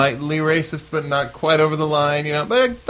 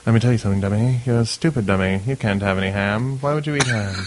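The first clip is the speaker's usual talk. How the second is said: low-voiced mock lecture to a dummy; ventriloquist scolding his dummy; 3 semitones lower than usual. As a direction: lightly act out a ventriloquist berating his dummy. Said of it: "awkward scenes with him, like".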